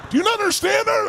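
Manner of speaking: imitating furious friend. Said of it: "my furious friend over here".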